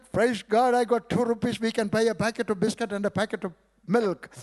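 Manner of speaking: high, loud, quick happy exclaiming; wife finding two rupees, exclaiming high and loud; joyful wife. Retold or imitated. Wife rejoicing over two rupees.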